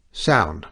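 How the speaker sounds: "Sound" landed hard and falling; sudden emphasis. A narrator's reading. Missus Satterthwaite insisting to the priest, emphatic. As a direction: stress the word "Sound" firmly. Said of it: "said with sudden emphasis".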